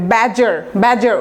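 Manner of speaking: "ব্যাজার" with no d sound before the j; silent D. Shown as a demonstration. Teacher drilling the spelling trap, "ব্যাজার" with silent D. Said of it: "ডিটা silent থাকবে".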